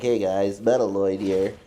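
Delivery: stuffy nose stream intro; congested. Retold or imitated. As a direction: greet them with a blocked nose. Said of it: "I sound like this the whole time".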